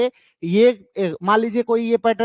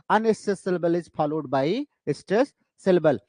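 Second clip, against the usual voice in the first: slow model answer; much slower than usual. Shown as a demonstration. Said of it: "तो अगर आपसे कोई पूछे".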